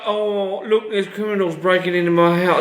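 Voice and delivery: put-on bland line read in a poor British accent; bad British accent. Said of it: "This is my worst British accent".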